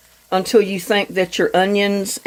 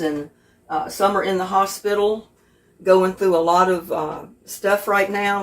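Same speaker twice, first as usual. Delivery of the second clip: prayer; 3 dB quieter than usual. Real, not acted. Says grace over the meal.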